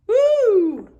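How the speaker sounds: loud, high whoop; excited cheer. Real, not acted. Reader cheers as the teacher eats books, loud whoop. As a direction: let out a gleeful whoop.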